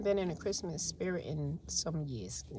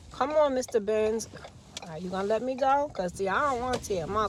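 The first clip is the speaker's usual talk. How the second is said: loud, fast call to the car ahead; 3 semitones higher, 6 dB louder than usual. Real, not acted. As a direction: call out to the driver blocking her. Urging a car in traffic.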